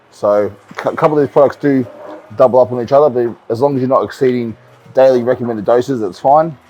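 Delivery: talking with tablets in mouth; mouth full. Real, not acted. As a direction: speak round a mouthful of pills. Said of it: "Sorry if it's all good in my mouth or tablets".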